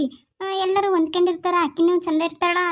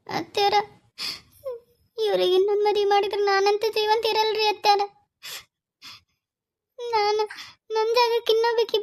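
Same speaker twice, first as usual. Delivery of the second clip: halting, mildly weepy plea with long pauses; tearful pleading; 2 semitones higher than usual. Acted. Daughter-in-law begging mother-in-law to stop the second marriage, tearful. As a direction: plead as if holding back tears. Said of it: "ನೀನು ಅಳಕ್ ಹೋಗ್ಬೇಡವ".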